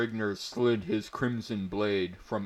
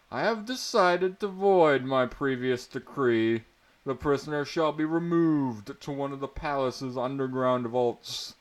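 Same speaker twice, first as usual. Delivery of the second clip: higher, louder, pompous royal decree; gloating prince; 3 semitones higher, 3 dB louder than usual. Acted. Prince gloats to the prisoner, pompous and loud. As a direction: savour the sentence like a cruel prince.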